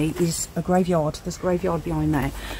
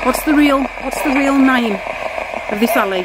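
calling to spirits; 5 semitones higher than usual. Real, not acted. Asking spirit box.

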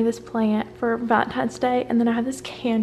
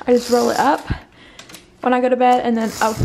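rushed, tangled words, louder; jumbled wrong take; 4 dB louder, faster than usual. Real, not acted. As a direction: trip over the words in a hurry.

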